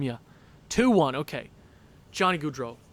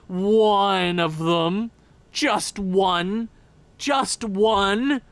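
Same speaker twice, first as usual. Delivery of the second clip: begging; 2 semitones higher, 5 dB louder, much slower than usual. Real, not acted. Begging for a goal.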